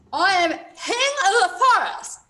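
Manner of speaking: muffled through feathers; mouth full of feathers. Acted. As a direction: talk through stuffed mouth. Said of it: "mouthful of feathers".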